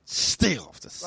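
slow, high, loud imitation of a rant; hammed-up bellow; mock angry yell. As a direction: parrot the furious actor, drawn out. Mimics the ranting actor's line.

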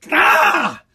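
drawn-out mock "ah!" yell; mock crazed yell. Ranting comic mimics pharmacy loiterers with a mock crazed yell. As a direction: imitate a cracked-out holler.

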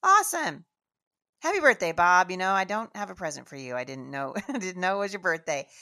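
loud, high gush opening on a big cheer; excited congratulations. Retold or imitated. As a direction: overdo the birthday cheer, breaking into a laugh. Retells her reply to birthday news.

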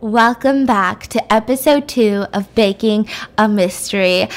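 podcast voice. Pretend. Host greeting listeners who know the screaming from videos, podcast voice. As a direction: settle into a composed podcast host delivery. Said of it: "this my fucking podcast voice".

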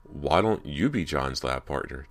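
slow, teasing and sly; sly, slowed-down tease; sly suggestion. Acted. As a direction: dangle the idea with a grin. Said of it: "suggested with a sly grin".

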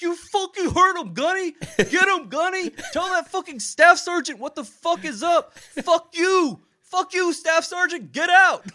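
high, loud, cursing drill-sergeant bark; first sergeant impression. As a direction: play the fired-up first sergeant egging him on. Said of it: "I impersonate his voice all the time".

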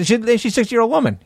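high, indignant emphasis. Real, not acted. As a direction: stress how absurd it is. Indignant retelling.

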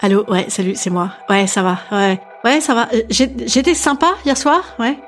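low, halting phone voice, trailing off; sheepish morning-after call, fumbling for words; hésitante au téléphone. Acted. Appel hésitant du lendemain de soirée. (hésitante et gênée au téléphone)

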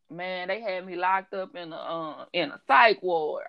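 lightly imitated client, a touch low; a hint of a laid-back man; slow-talking client. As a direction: mimic a slow talker, hesitating midway. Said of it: "like, a slow talking person".

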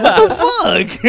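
high, loud, drawn-out outrage; mock mad dad. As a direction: imitate the dad's exasperated yell, laughing. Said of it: "when he gets mad".

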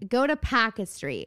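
Boston "Packer" with the r dropped; imitated Boston accent. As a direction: give directions in a Boston accent. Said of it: "story about Boston accent".

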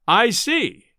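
dismissive, resigned shrug; shrugging. A narrator's reading. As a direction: brush it off with a shrug. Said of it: "with a shrug".

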